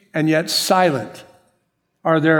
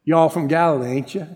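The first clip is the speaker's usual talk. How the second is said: folksy Southern stand-in for a Galilean twang; mock Galilean twang. Preacher imitating Galilean speech, light mock twang. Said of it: "He had a Galilean twang".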